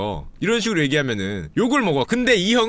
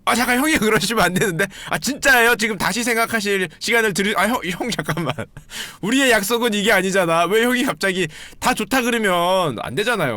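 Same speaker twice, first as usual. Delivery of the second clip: flustered host; 3 semitones higher than usual. Retold or imitated. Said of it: "사회자가 잠깐 당황한 표정을 지으시면서".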